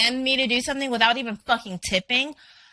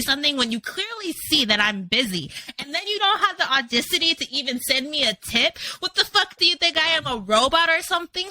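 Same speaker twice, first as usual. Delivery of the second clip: a hammed-up tirade at a rude viewer, a bit higher; mock rant at viewer; 4 semitones higher than usual. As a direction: tell off a non-tipping viewer in mock fury. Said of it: "and I'll go off".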